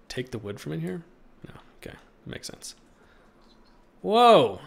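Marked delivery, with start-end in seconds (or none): 4.0-4.6 loud, high burst of surprise; surprised whoa. Real, not acted. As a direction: caught off guard, let it out. Spots something surprising in game.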